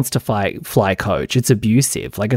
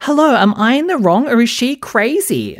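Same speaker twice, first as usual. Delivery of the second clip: much higher, faux-innocent sing-song; sugary put-on voice of a scheming boss girl; mock innocent queen bee; 11 semitones higher than usual. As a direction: play the mean girl fishing for agreement. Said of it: "she'd be like".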